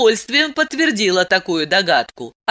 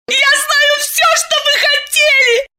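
high, tearful furious shout; furious cry; 4 dB louder than usual. Acted. Masha raging at Diana, high tearful shout. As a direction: hurl it at her in fury. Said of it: "с яростью крикнула Маша".

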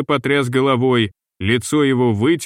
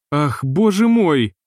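a slow, higher frightened gasp of a cry; 4 semitones higher, slower than usual. Acted. Этель пугается вестей о судне, испуганный возглас. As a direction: she cries out in fright, drawing it out. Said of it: "вскрикнула Этель испуганно".

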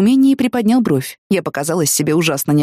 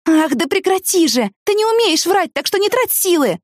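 exasperated shout; 11 semitones higher than usual. Acted. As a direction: shout down his lies. Arguing through the door.

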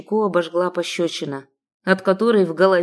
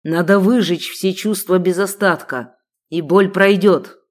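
bitter rage; 4 dB louder than usual. Acted. Sheikh in rage.

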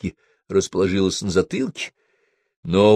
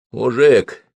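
slurring, just woken up; slurred groggy voice; 4 semitones higher, 7 dB louder, much slower than usual. Acted. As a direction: drag the words like half asleep. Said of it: "заплетающимся голосом".

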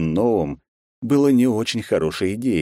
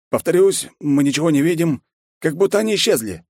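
higher, louder eager subordinate voice; lightly voiced nervous general; the general bowing to the emperor, higher and a bit louder; general's voice; 11 semitones higher, 4 dB louder than usual. General repeats report.

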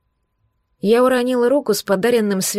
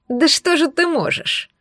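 higher, slow sneering snicker; nasty giggle; 7 semitones higher, slower than usual. A narrator's reading. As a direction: giggle it with contempt. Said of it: "мерзко захихикал он". (мерзкое хихиканье)

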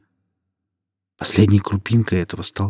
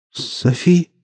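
trembling hushed pleading; 5 semitones higher than usual. A narrator's reading. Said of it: "произнёс Поль дрожащим голосом".

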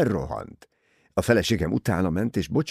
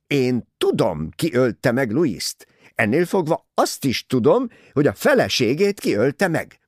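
portentous; 7 semitones higher, 5 dB louder than usual. A narrator's reading. Mrs Otterborn reveals knowledge.

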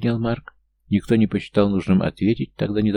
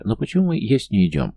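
whiny; 4 semitones higher than usual. Acted. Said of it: "жалобно простонал Габриэль".

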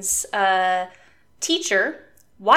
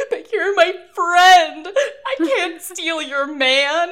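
high, loud, slow laughing sob; hammed-up crying friend begging, high and slow; mock wailing; 9 semitones higher, 6 dB louder, much slower than usual. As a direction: ham up a tearful wail through laughter. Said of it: "she bursts into tears and she's wailing".

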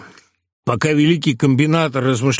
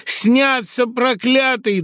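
put-on old man's cry; 10 semitones higher, much slower than usual. A narrator's reading. Old man wailing from afar.

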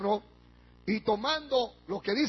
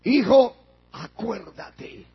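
Abraham answering; 5 dB louder, much slower than usual. Acted. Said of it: "¿Qué le dijo?".

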